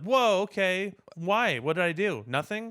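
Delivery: mock bewildered viewer. Viewer baffled by a sudden revival, mock bewilderment. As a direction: play a confused audience member thrown off.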